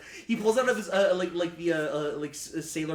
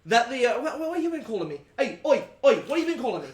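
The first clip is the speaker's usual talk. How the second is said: put-on much higher, louder jeering sailor accent; loud mocking challenge; 8 semitones higher, 8 dB louder than usual. Captain jeering at the crew, loud higher rough sailor accent. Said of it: "and just goes".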